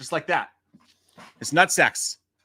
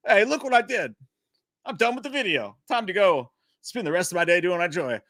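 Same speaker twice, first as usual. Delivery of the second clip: lightly pleased with yourself, pitched up; mock happy; 4 semitones higher than usual. Host acting himself done with the video, mock happy. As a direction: play a touch of oblivious cheer. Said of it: "like, happy".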